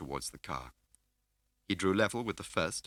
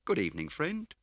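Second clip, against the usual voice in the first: lightly voiced fat man; 12 semitones higher, 4 dB louder than usual. A narrator's reading. Scar greets Smiley.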